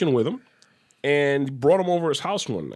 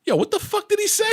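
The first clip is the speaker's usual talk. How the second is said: high, quick, laughing mock bafflement; laughing disbelief; faster than usual. Imitating a friend baffled after the phone call, laughing. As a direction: break up laughing while quoting, pitch way up.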